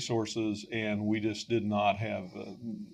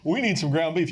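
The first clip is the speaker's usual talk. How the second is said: mock-earnest prayer; 6 semitones higher, 5 dB louder than usual. Prayer blaming Cecil.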